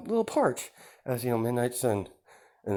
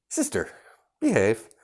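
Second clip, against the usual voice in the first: stern; 2 semitones higher, 4 dB louder than usual. Acted. Brother scolds sister.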